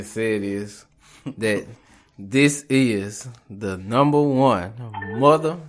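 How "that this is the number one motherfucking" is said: laughing. Real, not acted. Hyping the show while laughing.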